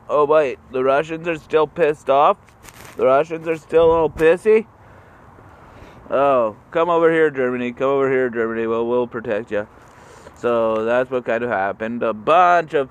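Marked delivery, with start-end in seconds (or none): 0.1-9.6 eager America. Retold or imitated. America calling Germany over.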